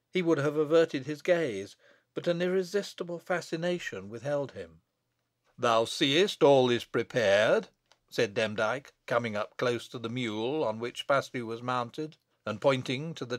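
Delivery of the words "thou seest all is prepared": slow, measured wizard's words; lightly voiced wizard, drawing out each word; wizard's taunt. Wizard shows the abbot the gallows, slow taunt.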